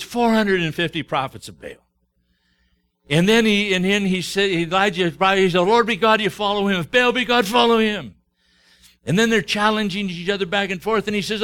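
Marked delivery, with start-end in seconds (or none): 5.6-8.1 loud, proclaiming call to choose; rousing challenge. Retold or imitated. Elijah calling the people to choose their God, loud proclamation. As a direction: throw the challenge out to the crowd.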